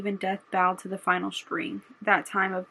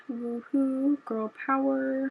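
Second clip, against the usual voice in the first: higher-pitched little celebratory whoop; girl-power cheer; 5 semitones higher, slower than usual. Acted. Reader cheering the winning heroines, celebratory.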